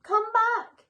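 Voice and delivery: loud high call after the flyers. A narrator's reading. Mister Claus calling after the vanishing flyers, loud. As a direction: call out to stop them. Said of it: "he called".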